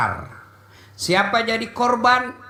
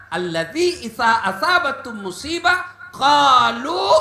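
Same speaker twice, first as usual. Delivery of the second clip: mock eager recital; 3 semitones higher than usual. Congregation's eager answer mimicked.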